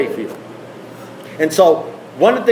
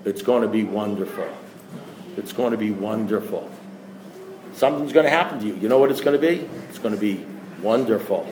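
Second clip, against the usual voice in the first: hushed, low, otherworldly murmur, much softer; eerie astronaut; 10 semitones lower, 8 dB quieter than usual. Retold or imitated. Dead astronaut telling the other one, soft and eerie. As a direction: breathe it like a ghostly voice from space.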